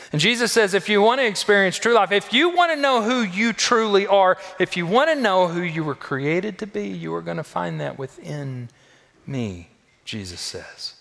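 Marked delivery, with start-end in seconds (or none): 0.1-9.7 loud, high, urgent preacher's call; full-force preaching. Acted. Pastor urging the congregation, preaching at full force. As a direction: drive the promise home to the church.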